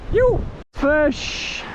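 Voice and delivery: high excited whoop; excited yell. Real, not acted. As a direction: shout it out with joy. Excited call after hooking fish.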